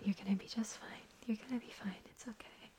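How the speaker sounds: usual speaking voice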